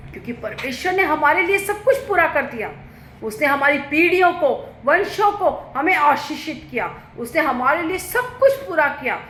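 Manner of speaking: high-pitched, emphatic proclamation; forceful preaching. Real, not acted. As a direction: proclaim the promise to the congregation. Preaches God's promises with force. (ऊँचे सुर में ज़ोरदार घोषणा)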